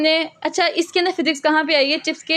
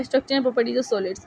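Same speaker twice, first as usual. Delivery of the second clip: slow and a little softer, word by word; slow dictation; 4 dB quieter, much slower than usual. Shown as a demonstration. Teacher dictating the solid state definition, slow. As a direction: read it out slowly for the class.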